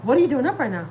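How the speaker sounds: imitating a surprised mother's question; surprised mom. Retelling how mom reacted to a late call, mock surprised. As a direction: act out mild surprise, pitch swooping up then falling. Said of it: "She sounds so surprised".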